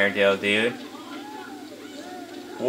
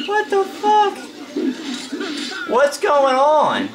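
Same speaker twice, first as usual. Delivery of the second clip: high, drawn-out what's going on; shrieking disbelief; much slower than usual. Real, not acted. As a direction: squeal it out in shock. Stunned by a falling soldier.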